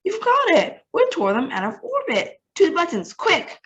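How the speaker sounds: very high, loud thrilled shout; excited cry. Acted. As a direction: burst out with the eureka idea. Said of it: "spun around ... and cried".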